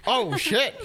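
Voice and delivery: high, rattled mock panic; mock flustered girlfriend. Mimicking his girlfriend losing the argument, mock panic. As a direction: squeak it out like someone caught losing. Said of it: "and you're like".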